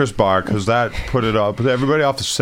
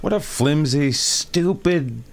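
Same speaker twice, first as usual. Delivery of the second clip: exasperated rant; 2 semitones higher, slower than usual. Real, not acted. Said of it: "you share how you feel".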